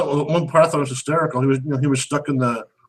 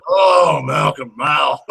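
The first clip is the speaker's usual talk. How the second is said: mock wail; 3 dB louder, much slower than usual. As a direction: wail the name out in hammed-up despair. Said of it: "I'm like".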